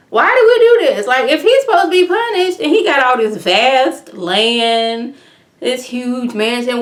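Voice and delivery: high, loud burst of protest; exasperated disbelief. Real, not acted. Recapper objects to the prisoner's punishment, loudly incredulous. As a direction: demand an explanation, easing down as you go.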